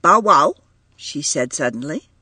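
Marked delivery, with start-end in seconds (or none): 0.0-0.5 put-on toddler voice. A narrator's reading. Toddler demanding a toy.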